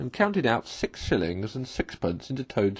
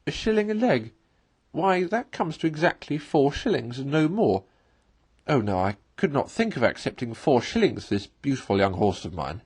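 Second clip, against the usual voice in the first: slightly raised, cheeky Toad voice; Toad haggling; 3 semitones higher than usual. Acted. Toad voiced while bargaining.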